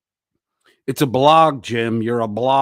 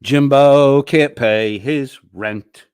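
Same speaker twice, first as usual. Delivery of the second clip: mocking announcement; 4 semitones higher, 9 dB louder, slower than usual. Mocking Jim.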